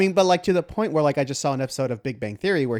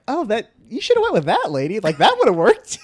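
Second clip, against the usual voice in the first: mocking voice; 9 semitones higher, 8 dB louder than usual. Mock advice to Holmes.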